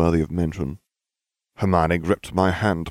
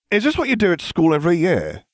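scowling; 12 semitones higher, 3 dB louder than usual. A narrator's reading.

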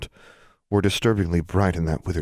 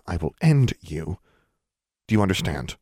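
cold threat. Acted. Threatens the portrait.

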